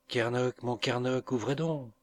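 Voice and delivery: sweet voice at the door calling Kernoc; soft fresh voice. Acted. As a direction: call him softly and sweetly from outside. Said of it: "répéta la douce voix".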